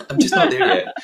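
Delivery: giggling through the words, high and loud; laughing. Real, not acted. Laughing at her own failed accent to co-host. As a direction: laugh it off while admitting defeat.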